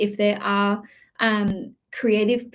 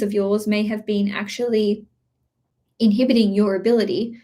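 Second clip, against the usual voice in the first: tickly throat about to cough; scratchy throat. Real, not acted. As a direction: voice catching, throat needs clearing. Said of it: "my voice is literally".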